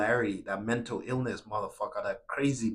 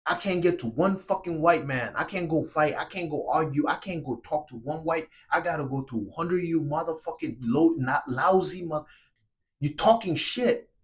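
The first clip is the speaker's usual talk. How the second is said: high, loud raging outburst; furious shout; 4 semitones higher, 3 dB louder than usual. Real, not acted. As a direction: yell it at the men blocking the way. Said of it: "I had to say something to kinda get your fucking attention".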